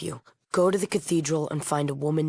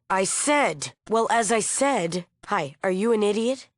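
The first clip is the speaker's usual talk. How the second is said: raised, impatient irritation; exasperated; 4 semitones higher than usual. Acted. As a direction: lose patience at having to repeat yourself. Irritated at having to repeat herself.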